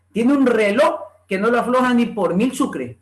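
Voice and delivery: RELOJ without the J, ending on O; Andalusian reloj. Acted. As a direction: read it out, saying "reloj" as reló. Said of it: "tal cual en Andalucía lo pronuncian".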